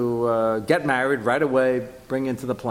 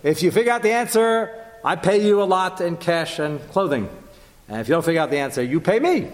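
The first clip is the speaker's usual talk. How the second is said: Shimshon voiced; 6 semitones higher than usual. Shimshon setting the wager to the guests, lightly voiced. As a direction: set the wager like a showman. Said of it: "He said".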